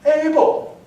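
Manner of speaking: loud, high shout of the name; a full calling shout. Retold or imitated. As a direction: bellow "Abel!" upward. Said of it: "And he goes".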